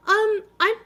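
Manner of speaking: put-on high, loud French-accented attendant; a nervous conductor with a put-on French accent. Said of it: "That was French".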